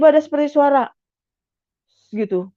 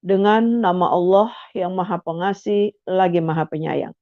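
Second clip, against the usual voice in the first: solemn translation reading; 6 semitones lower, 4 dB quieter, slower than usual. Shown as a demonstration. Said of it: "Terjemahannya misalnya begini".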